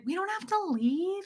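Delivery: high, soft coaxing; soothing husband in high soft voice; gentle pleading. Retold or imitated. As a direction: coax him softly to stay. Wife gently pleading with Fred.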